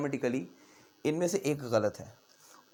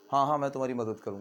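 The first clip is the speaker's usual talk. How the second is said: careless, throwaway, casual, offhand delivery. Showing how tone reveals unmeant words, casual, offhand tone. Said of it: "ये casual tone आपको बहुत कुछ बता रहा है".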